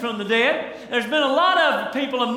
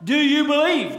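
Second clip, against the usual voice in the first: a lightly raised, pressing preacher's question; pointed question; 3 semitones higher than usual. Acted. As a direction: press the man for an answer. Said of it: "He asked him this pointed question".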